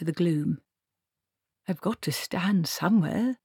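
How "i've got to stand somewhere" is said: a touch of peevish nervousness; lightly voiced nervous reply. Treatle nervously answering the shouting archchancellor, mildly peevish. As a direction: mumble a defensive excuse.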